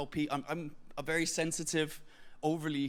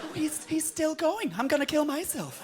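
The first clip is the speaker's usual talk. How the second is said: laughing despair; 9 semitones higher, 3 dB louder than usual. Retold or imitated. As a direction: drag it out, cracking up in pain. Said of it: "you're like".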